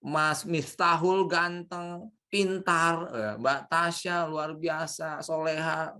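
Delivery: slow, gentle praise for each name; teacher modelling kind words; complimenting demo. Shown as a demonstration. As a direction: compliment them one by one, slowly. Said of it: "dan itu kalimatnya".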